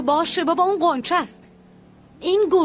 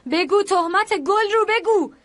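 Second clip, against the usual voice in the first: desperate pleading; 5 semitones higher, slower than usual. Acted. Sister begs her sibling to deny.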